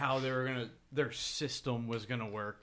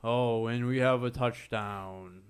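monotone; 6 dB louder, slower than usual. Retold or imitated. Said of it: "like, monotone".

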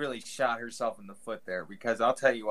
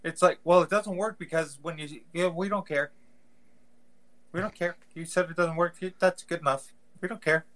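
higher, louder breezy rep voice; mock Amazon rep; 5 semitones higher, 3 dB louder than usual. Podcast host mocking a shrug-off Amazon rep, higher and breezy. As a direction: brush off the complaint like a carefree rep.

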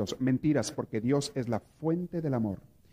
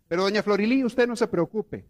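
raised, slowed comforting preacher to the widow; consoling priest; 5 semitones higher than usual. Retold or imitated. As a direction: reassure the grieving widow from the pulpit, slowing on the comfort.

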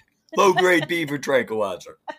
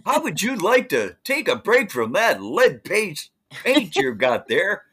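put-on wholesome 1950s kid; 3 semitones higher than usual. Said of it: "Hey, Jimmy".

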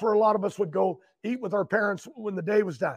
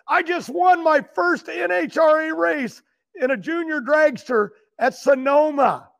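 higher-pitched excited announcement; imitated proud kid; 5 semitones higher than usual. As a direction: retell a kid's big news with excitement. Retold kid announces first race win.

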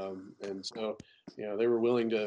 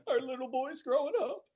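mock proud parent; 13 semitones higher than usual.

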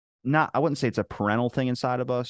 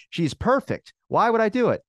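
high-pitched, emphatic retold defence; acted-out baffled protest; indignant disbelief; 12 semitones higher, 4 dB louder than usual. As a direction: plead the case, rising to a loud high question.

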